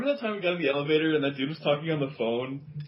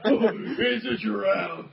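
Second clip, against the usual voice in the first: half-hearted; 3 semitones higher, slower than usual. Retold or imitated. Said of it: "it's really half-hearted".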